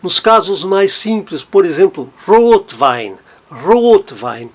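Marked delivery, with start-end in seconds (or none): 2.2-4.5 Rotwein with ROT strong and WEIN lighter; stress on Rot. Shown as a demonstration. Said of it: "O Rot é nitidamente mais forte que o Wein". (Rotwein com Rot nitidamente mais forte)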